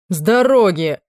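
captain pushing past the squire, commanding; barked order. A narrator's reading. Captain forcing his way in.

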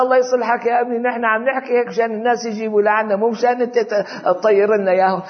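a hint of a fed-up father chiding his boy; joking sheikh scolding son. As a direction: play the exasperated sheikh through laughter. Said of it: "بيذكروها نكتة إنه في واحد شيخ".

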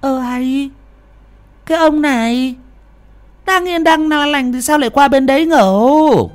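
very high-pitched character wife; high wifely complaint, rising in force; bewildered wife. A narrator's reading. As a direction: protest in a high, baffled voice. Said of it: "Bà Phẩm hóa đá ngơ ngẩn".

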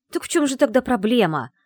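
agitated question, high and loud; nervous. A narrator's reading. Secretary out of guesses asks the lord, nervous. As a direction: demand it with frayed nerves. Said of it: "спросила нервно".

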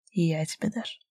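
soft fading whisper. A narrator's reading. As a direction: breathe it softly back. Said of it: "шепнул в ответ Руслан". (шёпотом, тихо)

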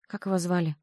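ordinary delivery, nothing marked

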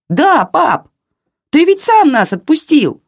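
high, loud defiant shout; the boy shouts to his father over the phone. A narrator's reading. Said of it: "Громко крикнул". (мальчик громко кричит отцу)

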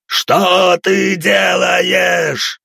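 high, slow, loud yell; screaming in pain. Acted. Leader screams in pain, slow and loud. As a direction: stretch the cry of pain.

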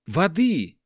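hoarse cry for a drink; urgent call for water. Acted. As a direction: rush them to bring water. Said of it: "заторопил он кувшин".

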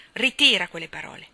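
furious hissed whisper; angry whisper. Acted. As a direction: spit the denial under the breath. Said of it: "si arrabbiò davvero".

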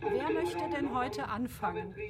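hushed opening question; quietly whispered invitation. Acted. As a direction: whisper to the circle. Opening the reading circle.

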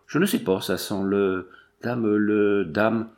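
halting, groping for the word; hesitant searching. Acted. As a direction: break off after each try, as if puzzling out a taste. Drinker gropes for the taste.

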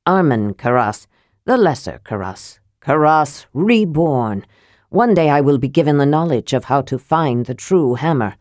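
a proud dwarf lord sizing up a stranger; mildly gruff dwarf voice; lightly voiced proud dwarf lord. Armen boasts of his name.

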